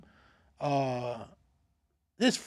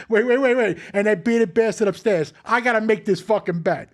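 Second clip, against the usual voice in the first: raised voice, a touch louder, worked-up gambler; ranting John, louder and fired up; imitating an angry rant; 3 dB louder than usual. The gambler cursing the cop over his bet, worked up and loud.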